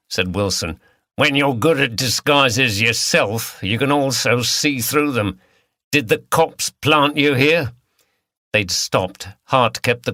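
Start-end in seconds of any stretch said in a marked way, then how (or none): 1.1-7.7 lightly voiced Cockney villain; a hint of Cockney, harsh and taunting; Cockney accent. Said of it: "He spoke in a Cockney accent".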